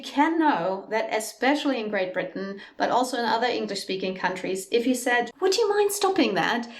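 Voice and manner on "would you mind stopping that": direct. Shown as a demonstration. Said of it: "comes across much more direct".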